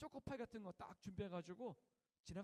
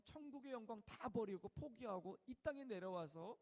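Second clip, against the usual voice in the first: voice of God; 3 semitones higher, 4 dB louder than usual. Retold or imitated. God answering the chaplain, from hushed to stern rebuke. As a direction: speak as God, gentle then stern. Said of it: "하나님이 말씀하신 거예요".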